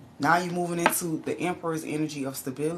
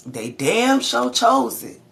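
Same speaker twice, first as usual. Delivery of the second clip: higher, louder, slow, punching chose; repeated with more force, nearly shouting; emphatic louder; 8 semitones higher, 8 dB louder, slower than usual. Real, not acted. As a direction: hammer it home harder. Preaching about free will.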